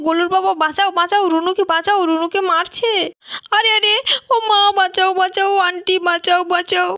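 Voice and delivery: acted alarm. Child calls aunty to save Runu, alarmed. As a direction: call out for rescue in a mild panic. Child cries for rescue from bull.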